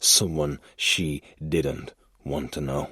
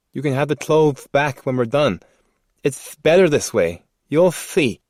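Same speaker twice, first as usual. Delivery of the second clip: creepy man voice; 11 semitones higher, 8 dB louder than usual. Acted. Man speaks to captive.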